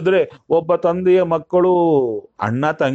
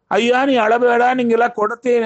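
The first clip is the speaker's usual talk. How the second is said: lightly voiced Brahma, higher, soothing a crying boy; a hint of a god consoling a child, higher; comforting Brahma; 8 semitones higher, faster than usual. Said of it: "ಅಂತ ಬ್ರಹ್ಮದೇವರು ಹೇಳಿದ್ರಂತೆ".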